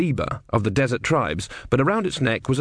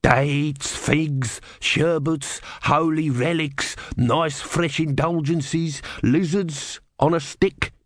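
hopeful hawker; 6 semitones higher, much slower than usual. A narrator's reading.

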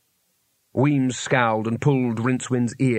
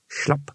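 throat clearing; 4 dB quieter than usual. Acted. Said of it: "Just clearing my throat".

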